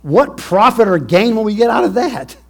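loud, high brother sneering at a profit; a brother pushing the others to cash in; scheming brother. Acted. Brothers plotting over Joseph, loud and high.

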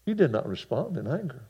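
usual speaking voice

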